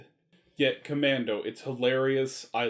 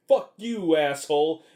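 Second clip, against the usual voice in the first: shouted higher and louder; mock yell; 3 semitones higher, 6 dB louder than usual. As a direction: bark it at him like a cornered thug. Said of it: "and he's like".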